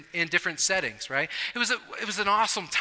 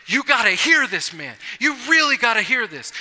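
insistent; 3 semitones higher, 5 dB louder than usual. Retold or imitated. Casey insisting.

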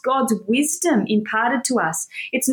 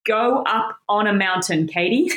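fatherly voice of God. Retold or imitated. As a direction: say it like a patient dad to his child. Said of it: "Oh, that was a dad moment".

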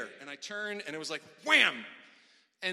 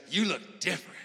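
"You look different" said up and bright, stress on "You"; with conviction; 2 semitones higher, 3 dB louder than usual. Shown as a demonstration. Pastor shows the congregation the right way, bright and emphatic. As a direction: sell "You look different" to your neighbor with energy. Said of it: "you gotta say".

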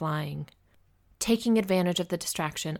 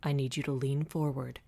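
lowered, steady instruction; composed, understated authority; calm but firm; 3 semitones lower than usual. A narrator's reading. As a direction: guide them evenly through panic. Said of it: "his voice calm but firm".

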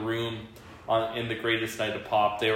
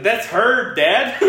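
high, loud mock Irish or Scottish accent; son's borrowed accent; 9 semitones higher, 8 dB louder, much slower than usual. Dad mimics his son correcting him, exaggerated Irish or Scottish accent. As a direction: imitate a kid's new accent, pitched way up. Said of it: "He just started talking with an accent".

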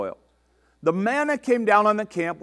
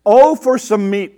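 a drawn-out, louder craving cry; exclaiming; 5 semitones higher, 6 dB louder than usual. A narrator's reading. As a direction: cry out for meat, a little higher and slower. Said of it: "they exclaimed".

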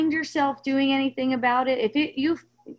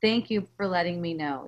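calm, lowered voice of acceptance; appreciative; 4 semitones lower, 3 dB quieter than usual. Acted. Coach models a reply to a son, appreciative. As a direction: gently thank them, without pushing back. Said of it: "just like that kind of energy".

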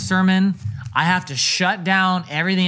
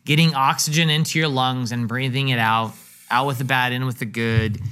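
slow calm voice; 3 semitones lower than usual. Shown as a demonstration. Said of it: "What am I doing?".

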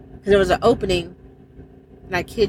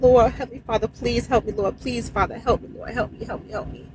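retold desperate prayer. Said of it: "I pray, I said".

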